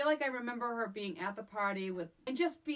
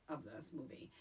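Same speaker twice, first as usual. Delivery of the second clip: whispered aside; 7 semitones lower, 12 dB quieter than usual. Real, not acted. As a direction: drop to a confiding whisper. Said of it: "it did not disappoint".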